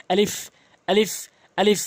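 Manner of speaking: আলিফ said short and straight, repeated; short alif without stretching. Shown as a demonstration. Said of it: "টান দিয়ে পড়বেন না".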